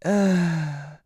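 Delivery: short imitated groan, easing off; softened mock "ahh" of pain. Hurt woman before letting it go, mock pained groan. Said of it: "and she went".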